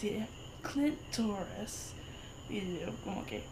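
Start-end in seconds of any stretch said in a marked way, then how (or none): 0.6-1.9 Clint Torres said the American way, lightly imitated; American accent. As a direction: mimic mom saying it in an American accent. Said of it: "Say it with an American accent".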